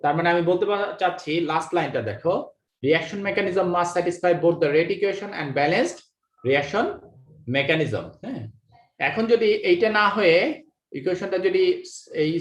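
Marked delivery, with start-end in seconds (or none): 2.8-8.1 very slow, word by word reading of the English line; slow dictation. Shown as a demonstration. Teacher reading the last line to the class, very slow and deliberate. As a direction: read each word out slowly for note-taking. Rereads textbook line to students.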